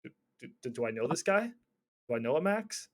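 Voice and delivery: puzzled seller. Retold or imitated. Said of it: "he's gonna be like".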